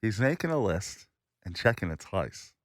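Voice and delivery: spoken word with lips held open; muffled lip sounds, mouth stretched wide; mouthpiece in. Shown as a demonstration. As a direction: recite round a gadget in the mouth. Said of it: "Spoken word or singing?".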